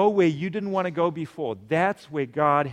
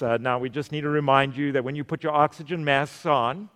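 flight attendant announcement; 3 semitones lower than usual. Retold or imitated. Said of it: "what do they tell you?".

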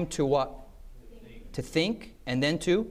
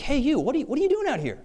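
mock dean calling out, much higher and louder; high-pitched call of the dean; high challenging dean; 11 semitones higher, 4 dB louder, faster than usual. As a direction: bark like a startled dean.

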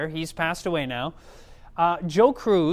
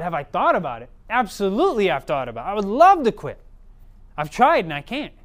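retold exasperated insistence, building louder; emphatic reply; 5 dB louder than usual. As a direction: act out an earnest, emphatic protest. Smoker's emphatic reply in retold story.

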